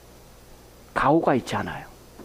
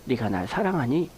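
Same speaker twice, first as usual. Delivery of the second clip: tender question; 7 semitones lower, 5 dB quieter than usual. Retold or imitated. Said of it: "한마디예요".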